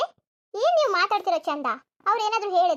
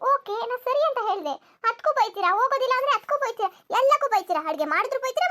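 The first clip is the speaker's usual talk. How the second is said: raised-pitch litany of complaints; exasperated protest; 3 semitones higher than usual. Acted. Daughter-in-law to mother-in-law about constant scolding, exasperated protest. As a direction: list the grievances in mild exasperation.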